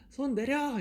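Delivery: high-pitched cheering call; shouted command. Shown as a demonstration. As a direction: call it out like a fan at the stage. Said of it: "이렇게 소리 질러주세요". (높은 톤으로 외치는 팬 목소리)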